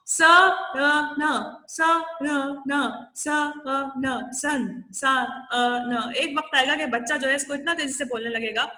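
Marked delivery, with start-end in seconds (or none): 0.1-6.1 स, अ, न chained faster into सन; blending sounds fast. Shown as a demonstration. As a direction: run the sounds together quickly until they merge. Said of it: "Now say them fast".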